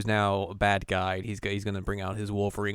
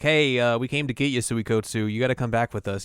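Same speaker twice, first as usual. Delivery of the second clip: mock villain quote; 4 dB louder than usual. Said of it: "they're like".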